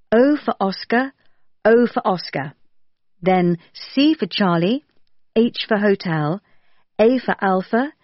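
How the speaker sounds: letter by letter with the phonetic alphabet; spelling it out. Shown as a demonstration. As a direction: spell it out clearly, one letter at a time. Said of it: "I'll spell that for you".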